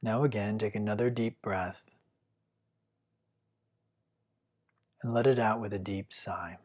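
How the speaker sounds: calm, unhurried meditation guiding with long pauses; guided meditation. Real, not acted. Teacher guiding listeners to feel their breath, calm guided meditation. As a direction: gently lead the listener through following the breath, leaving long silences.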